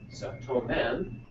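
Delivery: "tomen" said slowly, syllable by syllable; slowed model. Shown as a demonstration. Teacher slowly repeats the Greek word for the class. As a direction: lay out "tomen" slowly so students hear each sound. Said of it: "So we have tomen and toda".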